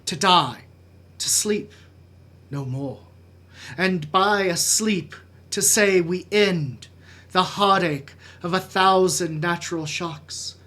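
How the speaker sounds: measured Shakespearean recitation with weighty pauses; dramatic soliloquy. Acted. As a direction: brood through Hamlet's soliloquy, letting phrases fall away.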